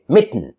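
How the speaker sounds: mitten as mit-n. Shown as a demonstration. Teacher modelling natural speech, mitten with bare N ending. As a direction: drop the vowel in mitten, T straight into N. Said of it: "I say".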